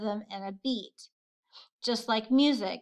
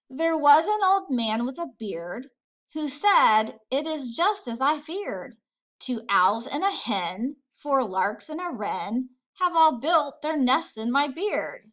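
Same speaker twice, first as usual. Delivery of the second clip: bouncy limerick reading, a bit higher; poem reading; 3 semitones higher than usual. Acted. Teacher reading a Shel Silverstein limerick to the class, rhythmic. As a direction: read it out with the beat of the rhyme.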